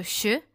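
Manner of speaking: "che" dit comme la fin de cloche; son ch. Shown as a demonstration. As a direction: son isolé "che", ch français sans t. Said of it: "comme en cloche". (« che » chuintant, comme dans cloche)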